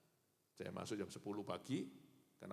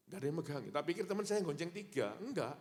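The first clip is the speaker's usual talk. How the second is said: laughing; 7 semitones higher, 4 dB louder than usual. Real, not acted. Laughing retelling of the crash.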